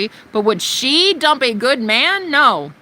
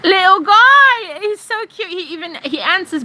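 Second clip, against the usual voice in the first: put-on high, loud baby-talk coo; mock cooing; 7 semitones higher, 4 dB louder than usual. Cooing at the troll as if he were a cute pet, high and squealy. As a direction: gush over him like a new puppy.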